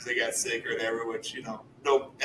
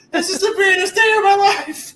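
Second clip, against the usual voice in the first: much higher, louder, starstruck; giddy fan squeal; 6 dB louder than usual. Retold or imitated. Retelling the band noticing him, in a high giddy squeal. Band member said his name.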